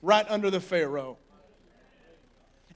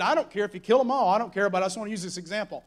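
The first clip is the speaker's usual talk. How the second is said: flippant; faster than usual. Retold or imitated. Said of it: "said something flippant and out of the way".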